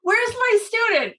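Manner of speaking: high, slow eager call for the student; eager call, drawn out. Retold or imitated. Urologist calling through the day, slow eager call. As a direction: stretch it out, calling keenly. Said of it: "all day".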